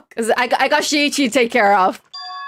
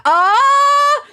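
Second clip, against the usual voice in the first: sudden high yelp of surprise; shrill startled oh; startled cry; 12 semitones higher, 4 dB louder than usual. Real, not acted. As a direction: jump at the fright.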